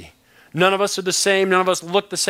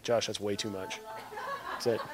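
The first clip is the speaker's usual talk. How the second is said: mock audience protest; 8 semitones lower, 14 dB quieter than usual. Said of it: "looking at me like".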